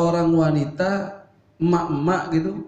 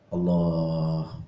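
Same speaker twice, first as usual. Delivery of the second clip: imitating Habib Umar; 9 semitones lower, much slower than usual. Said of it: "gitu, dikit-dikit nyebut nama Allah".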